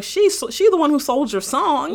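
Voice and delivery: loud, high-pitched protest; indignant outburst. Retold or imitated. Acted telling-off of the rapper.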